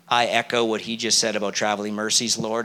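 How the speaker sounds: put-on low, soft Southern accent, teasing the repeat; a light Southern accent for the copycat prayer. Preacher mocking the second praying man in a Southern accent. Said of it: "I'm trying to do a bit of an accent".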